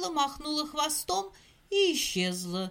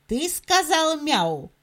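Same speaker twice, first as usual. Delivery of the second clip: stern; 3 semitones higher, 5 dB louder than usual. Acted. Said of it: "строго спросил".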